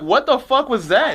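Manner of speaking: high, slow, mocking what-the-hell; stunned by the weird dance; shocked disbelief. To a friend caught in an awkward moment, shocked and high-pitched.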